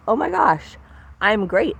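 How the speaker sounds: high, gushing delight; excited. Retold or imitated. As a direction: squeal it like thrilled inner parts. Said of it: "these parts are, like, thrilled".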